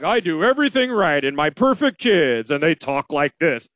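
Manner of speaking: lightly voiced smug know-it-all; a hint of a pompous advisor showing off; mildly mocking a self-satisfied blowhard; arrogant blowhard. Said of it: "arrogant blowhard who's just like".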